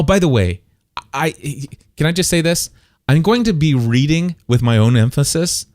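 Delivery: ordinary talk, nothing marked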